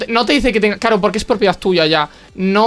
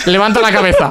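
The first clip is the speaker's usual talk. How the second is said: ad slogan voice. Retold or imitated. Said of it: "como la campaña de Antena tres".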